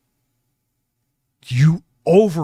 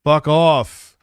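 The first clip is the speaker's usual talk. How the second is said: swearing tirade; 2 semitones lower, slower than usual. Real, not acted. Cursing at rival on show.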